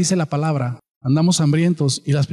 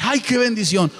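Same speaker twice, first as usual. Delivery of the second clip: milder gushing; 4 semitones higher than usual. Retold or imitated. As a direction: toss it off, half-hearted. Same quote repeated.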